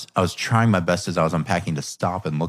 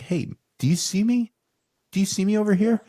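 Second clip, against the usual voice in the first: put-on high, small voice of a child asking to be seen; little child's cry; 10 semitones higher than usual. Dad voicing his daughter's plea for attention, high childlike voice. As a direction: lift the voice up high like a little girl pleading for attention. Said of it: "it's almost this little cry".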